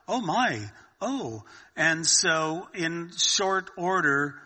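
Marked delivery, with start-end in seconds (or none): 0.1-1.4 higher-pitched imitation of an awed lady; mock amazed gasp of delight, falling away; excited. Lady answering the phone hears the news, mock excited. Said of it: "The lady that answered, she's going".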